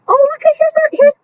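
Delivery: sudden high, bright "oh, look"; excited discovery. Real, not acted. Spotting the class turtle in the picture, excited. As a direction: leap up in pitch as you spot him.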